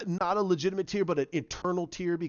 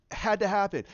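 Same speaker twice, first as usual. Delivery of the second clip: excited; 4 semitones higher than usual. Retold or imitated. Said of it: "I went".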